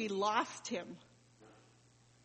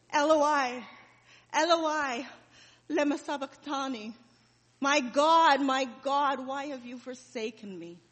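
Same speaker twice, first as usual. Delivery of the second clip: anguished loud wail that fades to a broken whisper; tortured cry; 3 semitones higher, 6 dB louder than usual. Acted. Son crying out on the cross, tortured anguished wail. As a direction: cry out in agony, then let it die away. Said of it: "in the most tortured of voice".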